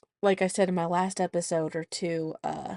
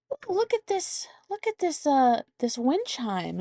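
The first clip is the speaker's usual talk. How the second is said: grandpa voice; 8 semitones higher than usual. Retold or imitated. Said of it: "And he goes".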